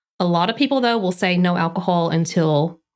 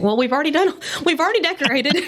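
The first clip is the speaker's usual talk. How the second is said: higher-pitched, laughing as you retell the plea; laughing retold plea; 9 semitones higher, faster than usual. Planner recalls coaxing a crying bride, laughing high-pitched plea. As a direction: recount it through bubbling laughter.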